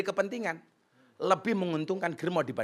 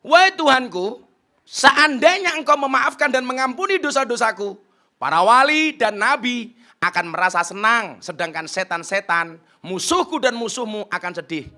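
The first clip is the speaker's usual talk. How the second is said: loud, raised pleading prayer; preacher voicing a man's prayer, loud and high; fervent prayer; 5 semitones higher, 9 dB louder than usual. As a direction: cry out to God. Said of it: "doa dari laki-laki ini apa".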